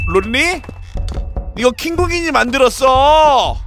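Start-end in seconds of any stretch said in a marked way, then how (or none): 1.6-3.6 이거 킹국인이 만들었어 shouted with stress on 만들었어. Real, not acted.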